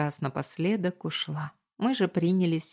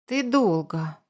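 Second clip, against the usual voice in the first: sulky; 3 semitones higher, 4 dB louder, slower than usual. A narrator's reading. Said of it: "насупился сын".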